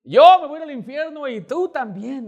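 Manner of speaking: hammed-up high, loud outburst; cursing tirade. Woman at the door cursing the evangelist, loud mock tirade. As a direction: yell it like an irate woman cursing someone out. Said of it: "Me empezó a maldecir".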